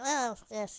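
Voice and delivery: nasal voice, talking with the nose pinched shut. Showing how his voice sounds with his nose closed, nose-pinched nasal voice. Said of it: "That's that's how my voice sounds with my nose closed".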